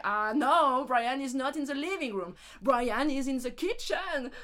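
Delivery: slow, over-articulated schoolbook reply; stiff textbook English. Retold or imitated. Answering the school dialogue in mock-formal English. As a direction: recite like a dull classroom tape.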